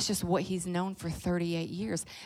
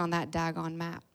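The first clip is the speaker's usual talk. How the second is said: Kentucky drawl; 3 dB quieter than usual. Real, not acted. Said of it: "I'm so Kentucky".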